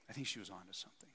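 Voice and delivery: quiet, quick echo of the thought; quiet repeat. Real, not acted. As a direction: say it again to yourself. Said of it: "that I think she was onto something".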